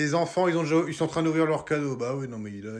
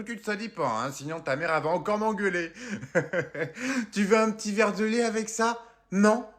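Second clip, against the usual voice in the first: grandma voice; 4 semitones higher than usual. Acted. Grandma voice offering cookies.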